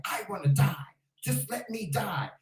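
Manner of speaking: soft, defeated plea to die; quiet despair. Retold or imitated. Husband in car, hopeless quiet voice. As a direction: mimic husband giving up in the car. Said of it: "I never heard him talk like that".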